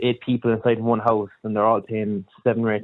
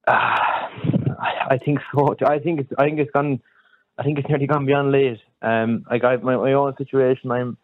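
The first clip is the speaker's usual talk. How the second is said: Kerry accent. Real, not acted. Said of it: "I'm from Kerry".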